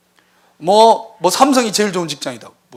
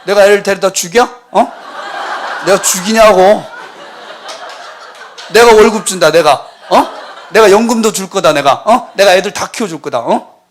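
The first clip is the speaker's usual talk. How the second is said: indignant God; 5 dB louder than usual. Acted. Voices offended God.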